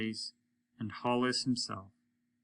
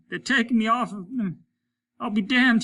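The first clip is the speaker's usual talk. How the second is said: laughing; 11 semitones higher, 7 dB louder than usual. A narrator's reading. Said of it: "he laughed".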